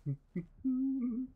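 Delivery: high soft sneaky voice; sneaky sing-song. Real, not acted. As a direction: creep along softly humming.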